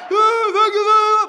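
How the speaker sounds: loud, high, slow groggy thanks; drugged patient. Retold or imitated. Numb-faced patient thanking dentist, drugged voice. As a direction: stretch it out, high and woozy.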